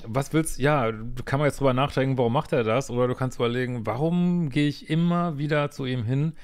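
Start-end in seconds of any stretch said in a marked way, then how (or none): 3.9-6.3 exasperated, drawing out the last words; slow, emphatic frustration on the swear word; worked up. Real, not acted. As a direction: get worked up and stretch each word at the end. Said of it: "sorry, dass ich mich so aufrege".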